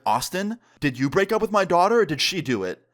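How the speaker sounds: retold mom's accusing demand; angry tone. Angry mom confronting her daughter's ex, accusing. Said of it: "an angry tone in her voice".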